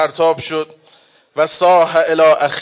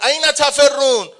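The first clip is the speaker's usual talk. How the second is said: grieving shout; 5 semitones higher than usual. Acted. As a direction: call after them in anguished rage. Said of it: "ابو عبدالله فریاد زد".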